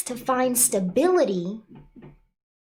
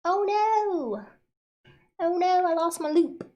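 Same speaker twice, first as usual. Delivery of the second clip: dismayed oh no; 7 semitones higher than usual. Real, not acted. Streamer loses her audio loop.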